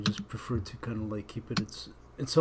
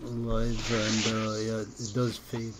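muffled, like through a pillow; slower than usual. Real, not acted. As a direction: voice muffled and fading. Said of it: "you sound like you're talking through a pillow".

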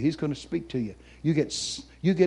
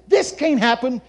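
raised, louder retold outcry; retold protest; 8 semitones higher, 4 dB louder than usual. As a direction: cry it out as if seeing it happen. Cries out at the vision.

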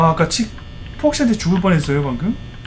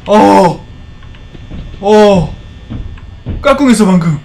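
loud startled cries; startled shouts; 2 semitones higher, 6 dB louder, slower than usual. Real, not acted. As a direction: jump at the scare and shout. Startled by peekaboo scare.

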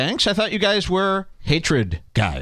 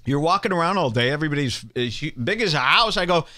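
usual speaking voice

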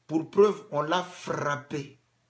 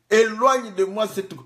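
pleading prayer; 8 semitones higher, 9 dB louder than usual. Acted. Jesus voiced praying in Gethsemane.

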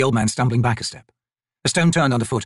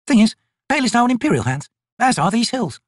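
high-pitched, no-nonsense soldier voice; tough corporal; 11 semitones higher, 3 dB louder than usual. Acted. Corporal interrogates a harmless-looking old man, tough and brisk. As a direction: question a stranger at crossbow point.

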